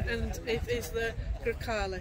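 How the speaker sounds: a light Italian accent on "the Grecale". Shown as a demonstration. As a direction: put on an Italian accent for the car name. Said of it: "put my Italian one on for a moment".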